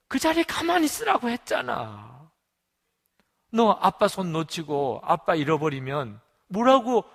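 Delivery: loud, high-pitched telling-off; acted scolding father. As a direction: scold a lost child in exasperation. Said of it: "자기가 막 야단을 치더래요".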